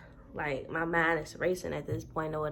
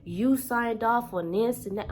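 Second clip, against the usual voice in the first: mocking office clerk; 4 semitones higher, slower than usual. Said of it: "They said".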